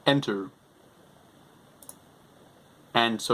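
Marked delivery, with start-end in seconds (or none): 0.1-0.5 dictating. Shown as a demonstration. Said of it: "other things you can do with it".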